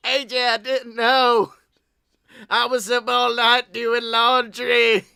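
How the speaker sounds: lightly voiced wife, apologetic; a hint of a sorry wife. Wife excusing herself to AJ, lightly voiced. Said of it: "play the role of the Styles family".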